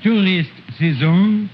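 put-on storyteller with a thick French accent throughout. Comic uncle retelling Jack and the Beanstalk in French accent. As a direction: tell the fairy tale in broken French-accented English.

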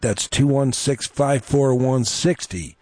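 radio ad read. Acted. Radio host reads sponsor plug to listeners, upbeat ad voice. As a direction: sell the piano store like a radio spot.

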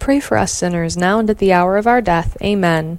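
steady devout rosary response; prayer recitation. Acted.

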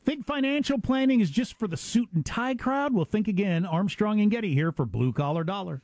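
upbeat, punchy ad read. Acted. Hosts reading a sponsor ad to listeners, upbeat ad read. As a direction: sell the offer to listeners.

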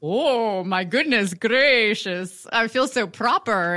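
lightly posh, slow; a hint of a prim lady, drawn out; mock proper voice. Mocking her own reaction to the guest, a slow, lightly proper voice. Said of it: "I was like".

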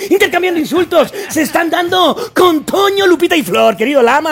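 hyped ringside announcer calling the bout; fast, punchy announcer hype; boxing announcer. Acted. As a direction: sell every punch like a ringside caller. Boxing ring announcer parody.

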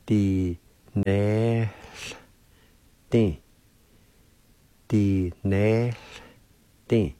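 "Di ne di" broken into separate syllables, the O silent. Shown as a demonstration. Teacher showing the silent O in play, syllable by syllable. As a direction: sound out "Di ne di" with clear breaks. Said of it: "like this".

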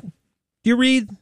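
high, slow mocking voice; mocking the pauses. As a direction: imitate his drawn-out reading. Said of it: "every time he pauses like that".

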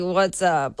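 mildly annoyed brush-off. Retold or imitated. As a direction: toss it off to end it. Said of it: "I was just like".

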